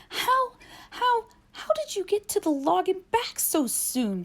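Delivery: panting. Acted. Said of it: "panted Nell".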